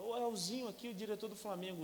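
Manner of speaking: high, hearty caller voice; cheerful director. Retold or imitated. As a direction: greet him like a friendly boss.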